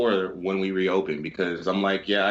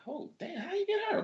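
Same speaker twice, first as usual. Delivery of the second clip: much higher, hushed amazed gasp; impressed disbelief; 9 dB quieter than usual. Retold or imitated. Clerk marvels quietly at the guest's girlfriend, amazed. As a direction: marvel at the guy's pretty date.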